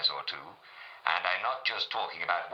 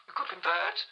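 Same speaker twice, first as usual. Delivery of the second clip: much higher, haughty royal lady; Queen Mary. Acted. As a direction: ask it like a queen looking down. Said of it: "Her Majesty Queen Mary".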